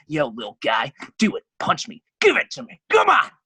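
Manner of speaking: taunting cops. Retold or imitated. Jail cops daring the young man to punch them, rising to a shout. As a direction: goad him to throw a punch.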